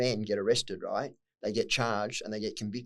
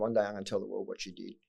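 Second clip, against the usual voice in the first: hushed, breathy vow; whispered threat; faster than usual. Retold or imitated. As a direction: whisper it like a threat to his face.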